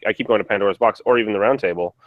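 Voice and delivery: usual speaking voice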